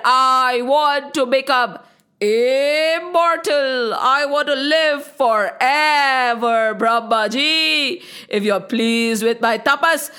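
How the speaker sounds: slow, deliberate demand from a proud demon king; demon king Tarakasur. Acted. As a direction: draw out every word like a threat. Demon demands immortality from Brahmaji.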